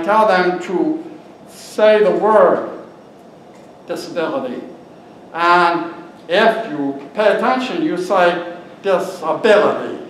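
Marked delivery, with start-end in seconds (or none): 3.9-4.6 disability with the weight on abi; stress on ABILITY. Shown as a demonstration. Teaching an audience how to say it, stress on ability. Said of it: "So the emphasis is on ability". 8.8-10.0 disability with abi stressed and dis kept light; stress on ABILITY. Shown as a demonstration. Speaker teaching the audience the word, stressing ability. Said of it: "So the emphasis is on ability".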